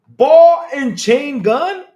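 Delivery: high, loud, drawn-out disbelief; amazed. Real, not acted. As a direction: cry it out slowly in astonishment. Amazed at weapon in trailer.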